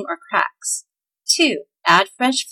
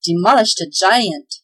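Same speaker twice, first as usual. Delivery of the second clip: slow, louder proud glee; gleeful elf boasting to Claus; 4 dB louder than usual. Acted. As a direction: savor the victory. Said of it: "said Tweedlenees gleefully".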